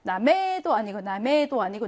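나메 with a full, clear e at the end; unreduced final e in 나메; wrong full vowel. Shown as a demonstration. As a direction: give the 메 in 나메 a full e. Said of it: "이렇게 약하게 발음합니다".

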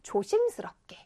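hushed, whispery cautious word; careful, cautious. Shown as a demonstration. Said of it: "말투 어떻게". (조심스럽게 속삭이듯)

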